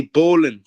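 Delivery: "bowling" with the g dropped, bowlin'; "bowling" as bowlin', firmly stated; Irish pronunciation. Shown as a demonstration. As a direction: say "bowling" the Irish way, ending in a plain n. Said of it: "Just call it bowling".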